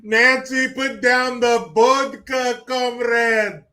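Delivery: loud, slow, mock-stern call; mock Russian scold. Streamer mocking Pelosi, loud mock Russian scold. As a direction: scold her like a Russian drinking buddy.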